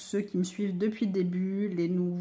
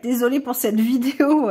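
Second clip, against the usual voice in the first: voice breaking; 4 semitones higher, 8 dB louder than usual. Real, not acted. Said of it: "j'ai la voix qui part en cacahuète".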